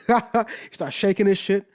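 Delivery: drawn out, savouring each word; slow amused repeat. Real, not acted. Repeating the MC's fit slowly for effect. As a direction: stretch it out to let it land. Repeats the line after laughing.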